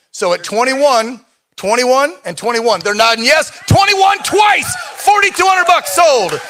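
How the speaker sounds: auctioneer. Real, not acted. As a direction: drag out the final call. Closing auction bid.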